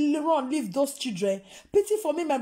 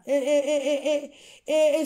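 laughing; 4 dB louder than usual. Real, not acted. Laughs mid-rant.

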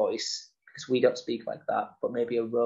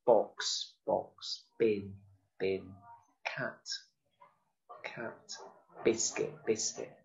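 each word said, then echoed softer; 3 semitones lower, 6 dB quieter, much slower than usual. Shown as a demonstration. Teacher to children, echoing each word softer. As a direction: repeat each word, fading. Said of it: "help with your expression".

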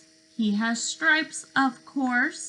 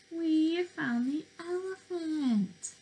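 pleased announcement; 6 semitones higher, 4 dB quieter than usual. Acted. Excited discovery for children.

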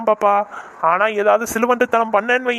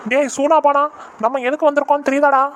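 higher-pitched telling-off; exasperated scolding; 5 semitones higher than usual. Acted. Kidnapper to his hapless gang member, exasperated scolding. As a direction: take a sidekick to task.

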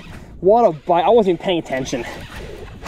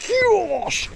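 high, drawn-out awed gasp; real astonished oh my gosh; stunned gasp. Real, not acted. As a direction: slowly breathe out the shock. Huge fish strikes.

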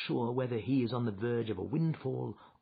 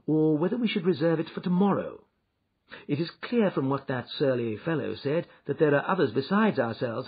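animated detective, higher and louder; Holmes; 5 semitones higher, 6 dB louder than usual. Acted. Holmes reasons aloud to Watson, animated. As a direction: reason it out briskly for a companion.

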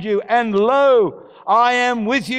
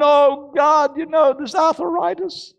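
whining self-pity; 4 semitones higher than usual. Retold or imitated. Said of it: "we can go on and on".

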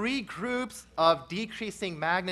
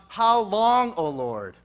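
loud, slow, pleading cry to God; loud drawn-out cry of despair; 3 semitones higher, 9 dB louder, slower than usual. Acted. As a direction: call out the lament in anguish. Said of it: "The psalmist cries out".

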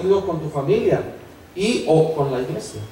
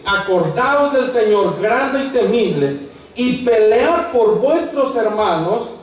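higher, slower rallying cry from scripture; arenga leída; 5 semitones higher, slower than usual. Acted. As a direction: read it out as a drawn-out exhortation to the people. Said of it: "y dije a los nobles". (arenga bíblica solemne)

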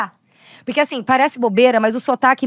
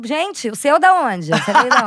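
laughing retort; 2 semitones higher than usual. Retold or imitated. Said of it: "Eu falo".

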